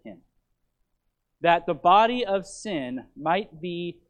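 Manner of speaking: measured, emphatic Bible reading; scripture reading. Acted. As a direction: proclaim the verse to the congregation. Reads scripture aloud to congregation.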